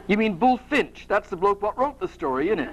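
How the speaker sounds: amateur Cockney know-all; a hint of Cockney; Perseus. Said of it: "like to do a Cockney accent".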